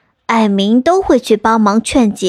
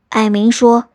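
ordinary delivery

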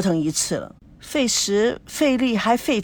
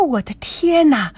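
laughing; 6 semitones higher than usual. Acted. 高培志想通了，笑着惊呼. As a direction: laugh out my god, high.

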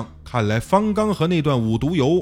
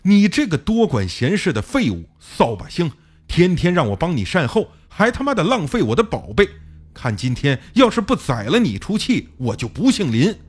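cursing while chasing; 4 semitones higher than usual. Acted. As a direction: spit the insults out while running after him. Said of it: "边追还边骂".

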